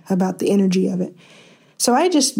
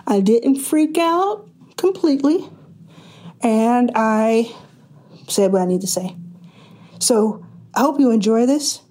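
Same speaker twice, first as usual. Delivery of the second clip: breathless with excitement; short of breath, excited; 2 semitones higher than usual. Real, not acted. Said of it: "I might sound like I'm out of breath".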